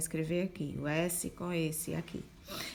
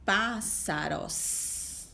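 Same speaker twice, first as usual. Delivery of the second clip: slow reading aloud; much slower than usual. Shown as a demonstration. Teacher reads picture word slowly.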